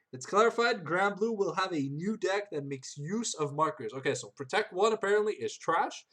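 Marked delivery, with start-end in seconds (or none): 0.1-3.9 lightly put-on announcer read. Shown as a demonstration. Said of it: "in my announcer voice".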